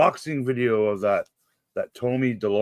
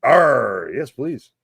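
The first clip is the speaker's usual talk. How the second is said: pirate growl; 3 dB louder, much slower than usual. Pretend. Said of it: "in the honor of the pirate talk".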